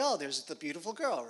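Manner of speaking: lightly acted waking discovery; imitated pleasant surprise; mock surprise. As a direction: play a man suddenly noticing someone, with lilting pitch. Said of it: "Boaz wakes up, he's like".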